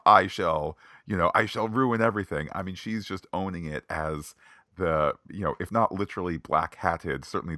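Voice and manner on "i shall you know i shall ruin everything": mustache twirling villain. Retold or imitated. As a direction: ham it up like a melodrama baddie. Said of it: "mustache-twirling".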